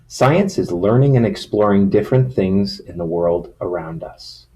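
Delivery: storybook reading voice; reading to children. Acted. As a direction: read it like a picture book to kids. Reads picture book to children.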